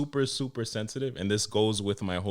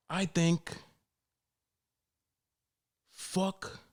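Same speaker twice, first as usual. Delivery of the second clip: higher, put-on voice of a barbershop know-it-all; political customer; 8 semitones higher than usual. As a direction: lean in like sharing a hot take. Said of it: "somebody's gonna be like".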